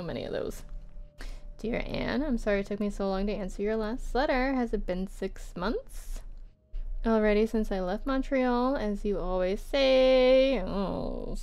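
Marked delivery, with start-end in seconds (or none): 1.6-10.6 measured, expressive reading; letter read-aloud. Acted. Writer answering Anne months later, lightly performed letter reading.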